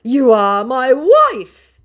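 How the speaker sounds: high, loud, slow cooing; mock scammer voice. Vlogger mocking the scammer's clingy goodbye, high and slow. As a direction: coo it high and drawn out. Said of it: "he tries again".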